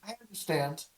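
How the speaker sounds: put-on a small girl swearing to help; determined ghost child.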